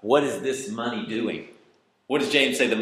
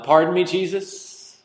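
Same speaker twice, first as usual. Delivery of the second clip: slow, higher-pitched timid mock plea; mock polite request; 6 semitones higher than usual. Shown as a demonstration. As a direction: ask meekly, as if interrupting, no urgency. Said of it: "How did that go?".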